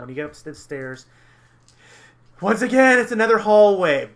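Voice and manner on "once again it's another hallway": loud, high, booming game master reveal; mock-dramatic announcement. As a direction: proclaim it with exaggerated fanfare.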